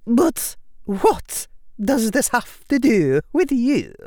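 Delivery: slow, high, probing Scottish professor; precise Scottish accent. A narrator's reading. Professor questioning the boy, precise Scottish accent. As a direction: question slowly in careful Scottish tones. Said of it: "in her precise Scottish accent".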